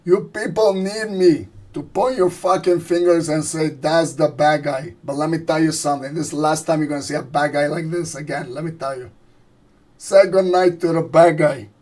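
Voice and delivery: loud gangster speech, pushing to a big finish; Tony Montana impression. Streamer hams up the bad guy speech for his viewers, loud. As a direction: swagger through it like a cornered mob boss. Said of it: "I think I like this voice".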